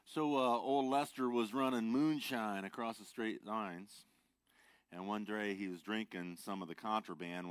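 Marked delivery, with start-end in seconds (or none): 0.0-4.1 loud storytelling. Acted. Joke told loudly to open sermon.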